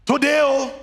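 "oh" held high after "Today"; emphatic "oh". Shown as a demonstration. Preacher demonstrating an African expression, emphatic "oh". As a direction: lift the tagged-on "oh" for emphasis. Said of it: "It's the emphatic".

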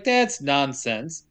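slow, flat dismissal; slow dismissive. Retold or imitated. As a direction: drag it out dismissively. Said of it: "And she's like".

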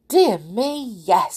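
a touch of delighted fluster; pleased goblin. Acted. Goblin finds his hat, mildly pleased.

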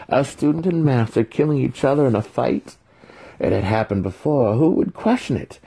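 high, loud mocking villain voice; the villain taunting Alton before the kill; gloating villain. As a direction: savor the victory, sneering.

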